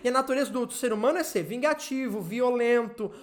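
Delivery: urgent, pleading sermon delivery; impassioned preaching. Real, not acted. Preacher warns believers they are losing Christ's love, impassioned preaching. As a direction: confront the congregation with insistent force.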